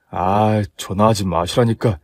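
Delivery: low, mildly exasperated groom; lightly voiced fiancé. Groom complains about his mother's call, lightly voiced and exasperated.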